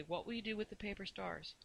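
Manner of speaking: dreamy. A narrator's reading. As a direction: wonder softly, as if drifting. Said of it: "she said dreamily".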